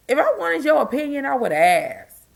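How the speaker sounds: firm, clipped retort; sassy retort. Shown as a demonstration. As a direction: spell it out, no nonsense. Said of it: "I even got a shirt that said it".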